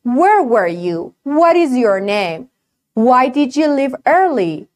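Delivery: "Where" and "What" with lips rounded, no teeth; slow, clear lip-rounded W. Shown as a demonstration. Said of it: "لباتو باید قنچه کنی".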